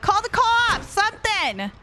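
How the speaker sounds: high-pitched frantic shouts; panicked shouting. Real, not acted. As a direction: yell for your teammate to flee. Panicking while chased in game.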